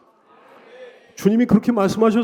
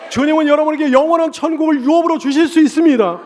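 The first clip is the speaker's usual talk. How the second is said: loud, high, building proclamation; rising fervent sermon climax; full-force preaching; 6 semitones higher, 6 dB louder than usual. Acted. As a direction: preach it to the whole congregation.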